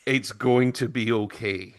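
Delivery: slow, measured reassurance; retold reassurance. Principal to panicked teacher, slow retold reassurance. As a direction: lightly imitate someone calming a worrier, slowly.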